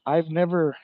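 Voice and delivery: slow, winded from walking; breathless from walking and talking; out of breath. Real, not acted. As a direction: puff it out after a long walk. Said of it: "I'm almost out of breath".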